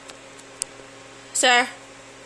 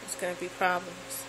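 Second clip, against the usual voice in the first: lower, softer voice for the dog, lightly done; voicing the dog; 4 semitones lower, 9 dB quieter than usual. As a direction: give the dog a low grumbling voice. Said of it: "He's like".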